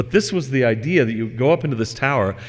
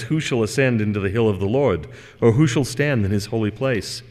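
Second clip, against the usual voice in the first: scripture reading. Acted. Reads Psalm twenty-four.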